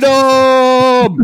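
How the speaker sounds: high, loud Scottish battle cry; long hammed-up Scottish yell; Scottish accent. Shown as a demonstration. Answering a request for accents with a shouted Scottish war cry. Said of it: "I wanna do Scottish".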